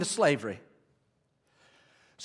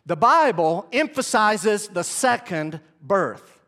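slow dictation; slower than usual. Shown as a demonstration. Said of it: "Write this down".

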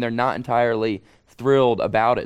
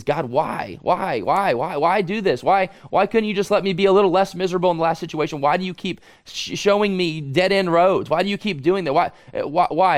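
frustrated plea; 3 semitones higher than usual. Acted. Voicing a frustrated prayer to God.

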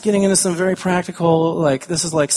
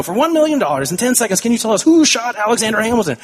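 radio host; 7 semitones higher, 3 dB louder than usual. Retold or imitated.

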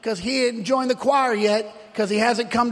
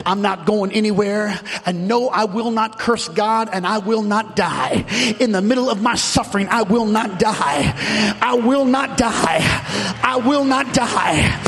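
defiant declaration, building; 4 semitones lower than usual. Acted. Job refusing to curse God, defiance building to a shout. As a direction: start low and firm, build steadily to a preacher's shout.

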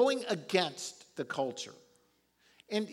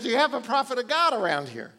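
faster, louder, pressing question; louder urgent ask; 6 semitones higher, 7 dB louder, faster than usual. Retold or imitated. Preacher retells king's question, now louder and urgent. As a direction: push the question harder. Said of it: "He says".

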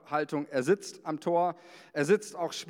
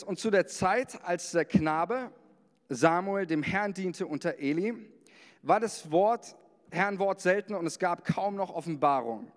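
raised, solemn Bible reading; scripture reading; 2 semitones higher than usual. Acted. Pastor reading First Samuel to the congregation, solemn. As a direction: read the verse like a proclamation.

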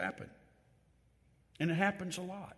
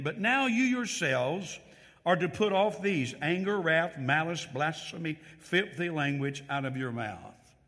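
scripture reading. Acted. Preacher reading the verse aloud with weight. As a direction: read it out with weight.

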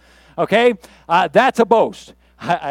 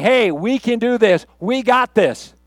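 raised, confident pep talk; rally them with confidence; rallying boast; 4 semitones higher, 3 dB louder, slower than usual. Acted. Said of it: "that is a boast".

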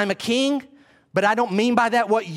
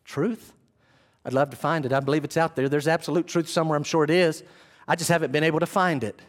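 wistful seeker longing for truth; sincere seeker; 5 semitones lower than usual. Shown as a demonstration. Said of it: "Or is he sincere?".

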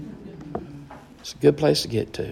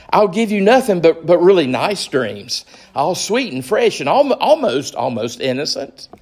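higher, wheedling, desperate creature voice; pleading lizard; 4 semitones higher than usual. Acted. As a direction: beg and coax like a clingy little lizard. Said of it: "the lizard began chattering".

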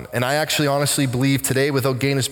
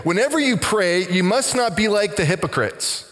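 Jesus speaking; 5 semitones higher than usual. Retold or imitated. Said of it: "to hear Jesus say".

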